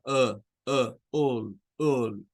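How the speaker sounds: uh said low with lips barely open; a low lazy uh, mouth almost closed; schwa sound. Shown as a demonstration. Teacher demonstrates the schwa ending of apple. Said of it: "Entonces esto suena a".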